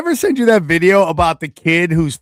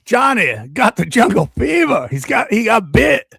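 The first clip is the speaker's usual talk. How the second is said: mock movie shout; 6 semitones higher than usual. Mock movie line about Johnny.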